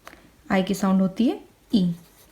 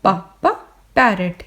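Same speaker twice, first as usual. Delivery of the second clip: lively phonics drill; 5 dB louder than usual. Shown as a demonstration. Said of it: "इस तरीके से".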